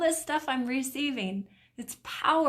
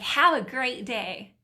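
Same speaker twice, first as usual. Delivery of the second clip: "Have a great day" slower and louder, sincerely meant; as really meant; 2 semitones higher, 7 dB louder, slower than usual. Shown as a demonstration. Showing viewers what the sender truly meant, sincere. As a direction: say "Have a great day" slow, loud and kind. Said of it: "But really what you said was".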